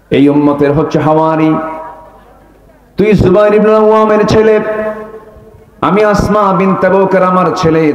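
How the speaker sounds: enraged mother shaming her son; angry mother. Acted. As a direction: scold a son as a furious mother. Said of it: "রেগে গিয়ে বলতেছে".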